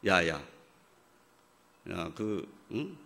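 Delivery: a lightly voiced dismissive dad; half-hearted gruff father voice; mock gruff father. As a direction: brush her off like an impatient father. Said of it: "이럴까요?".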